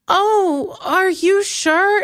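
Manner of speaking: high, slow, sugary concern; mock stranger asking if she's okay; mock concerned girl.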